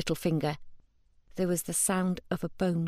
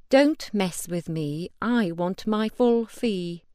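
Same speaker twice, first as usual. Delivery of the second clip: menacing; 3 dB louder than usual. Acted. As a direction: lay out each word as a warning. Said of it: "the menace in her voice".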